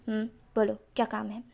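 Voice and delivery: understated, businesslike seriousness; mildly stern, all business; serious tone. Acted. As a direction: turn slightly serious, as if taking a work call. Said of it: "एकदम serious tone में कहता है".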